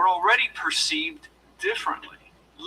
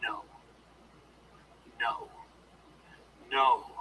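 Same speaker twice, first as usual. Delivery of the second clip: deep, firm "No." getting lower; 3 semitones lower, 6 dB quieter than usual. Shown as a demonstration. Coach demonstrating to the audience a deep firm no. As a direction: say "No." lower and firmer each time. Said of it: "Say it as I say it".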